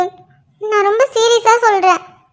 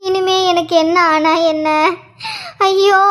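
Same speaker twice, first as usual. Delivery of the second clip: crying mother's lament; tearful despair; 3 semitones lower than usual. Acted. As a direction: wail in grief at the news. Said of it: "அழாத மல்லிகா". (அழுகையோடு புலம்புவது)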